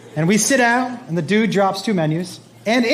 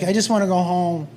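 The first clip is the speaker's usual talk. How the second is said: mildly sulky, a little lower; sulking child; 3 semitones lower than usual. Retold or imitated. Son to dad after being told off, mildly sulking. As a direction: lightly imitate a kid in a huff. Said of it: "he's sulking".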